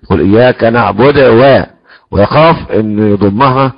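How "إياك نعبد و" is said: "نعبد و" with the final damma cut short and weakened; demonstrated mistake. Retold or imitated. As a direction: imitate a reciter swallowing the vowel at the end of "نعبد". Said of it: "وهذا اسم تنقص حروف". (تقليد خطأ نقص حركة الدال في "نعبد")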